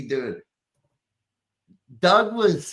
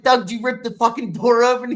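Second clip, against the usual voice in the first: high, louder mock disbelief; retold incredulous question; 8 semitones higher, 5 dB louder than usual. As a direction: act out astonishment at your buddy. Retelling his astonished question to Doug.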